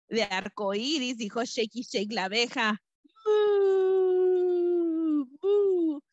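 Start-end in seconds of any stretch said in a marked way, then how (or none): 3.3-6.0 high, louder playful moo; cow moo. Acted. The cow mooing lovingly to her bee friend, playful moo.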